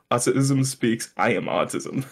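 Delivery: slow, mock-ominous ad voice; lightly voiced menacing announcer; imitating deep-voiced narrator. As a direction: intone it slowly like a sinister voice-over. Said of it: "this guy with a deep voice".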